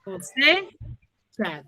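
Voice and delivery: "Cosecha" drawn out very slowly, syllable by syllable; teacher stretches "Cosecha" out for the class to hear; slow syllable demo. Shown as a demonstration. Teacher to class, spelling the word out slowly. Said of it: "Dónde tiene la mayor fuerza de voz".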